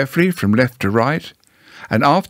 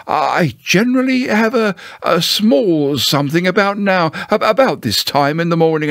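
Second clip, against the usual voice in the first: higher, hesitant, faintly dreamy bear; dreamily; 6 semitones higher than usual. Acted. Pooh hints at his morning snack, mildly dreamy. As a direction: drift into thoughts of a snack. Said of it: "he went on dreamily".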